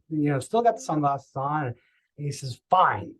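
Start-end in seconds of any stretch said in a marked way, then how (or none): 2.7-3.1 a light imitation of a curt, stern fine; mild loud stern reply. Stranger answering the cocky patient, lightly imitated stern. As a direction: clip the word short and stern. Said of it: "like, really loud and stern".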